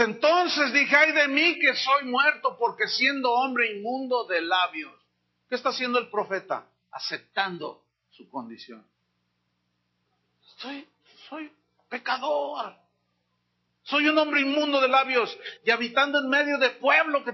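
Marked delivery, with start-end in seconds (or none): 0.0-5.0 higher, louder anguished cry of the prophet; prophet's lament. Acted. Prophet crying out before God's throne, higher and louder in anguish. 10.6-17.3 higher pleading confession, the second line slowed; prophet's confession. Acted. Prophet confessing to God, a higher, pleading voice.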